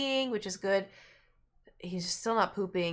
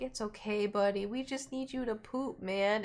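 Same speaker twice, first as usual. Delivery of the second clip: imitated gentle pet-comforting voice; soothing; 3 semitones higher than usual. Friends consoling a constipated cat, soothing. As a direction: lightly coax a poorly animal.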